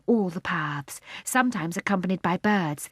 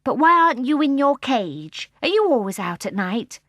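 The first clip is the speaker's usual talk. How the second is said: put-on surprised boy; 6 semitones higher, 5 dB louder than usual. Michael asks the bear.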